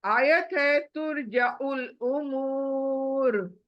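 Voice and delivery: तुरजाउल उमूर said slowly; tajweed reading; slow recitation. Shown as a demonstration. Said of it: "आगे देखें".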